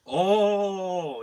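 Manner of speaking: high, loud, drawn-out mock gasp; mock shock.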